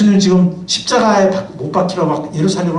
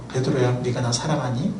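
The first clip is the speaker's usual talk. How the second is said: soft, gentle asking of a loved friend; tender Jesus; 6 semitones lower, 7 dB quieter than usual. Acted. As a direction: quietly ask if he loves you. Jesus voiced tenderly asking Peter. (베드로에게 부드럽게 묻는 예수의 목소리)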